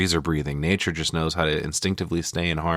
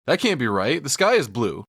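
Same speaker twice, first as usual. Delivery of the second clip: high, bewildered disbelief; baffled stoner; 8 semitones higher than usual. Retold or imitated. Tripping Mark confused about the time, high and baffled. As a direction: sound totally lost at the bright sky. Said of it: "and he's like".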